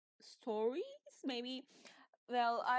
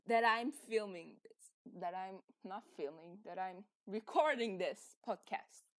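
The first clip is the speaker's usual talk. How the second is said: chewing gum; 3 dB louder than usual. Real, not acted. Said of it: "sorry for my gum chewing sounds".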